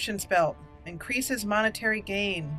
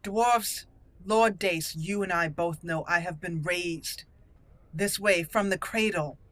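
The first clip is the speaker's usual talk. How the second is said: haughty noble rebuking a petitioner; indignant, formal in-character speech; proud dwarven noblewoman. Acted. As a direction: lay down the law with aristocratic conviction. Player voices proud noblewoman answering Lord Dace.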